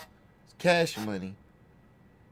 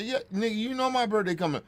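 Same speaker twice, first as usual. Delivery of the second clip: aunt insisting; 9 semitones higher than usual. Retold or imitated.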